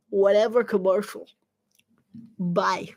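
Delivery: normal talking voice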